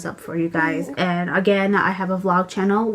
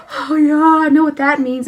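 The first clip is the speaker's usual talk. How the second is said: voicing the baby; 7 semitones higher, 4 dB louder than usual. Mom voicing baby's thoughts.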